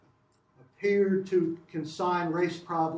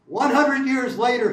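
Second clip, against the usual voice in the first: put-on higher, louder Philadelphia-accented oratory as Johnson; 6 semitones higher, 8 dB louder than usual. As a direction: proclaim it like a Philly orator. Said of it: "I'm doing Johnson in a Philadelphia accent".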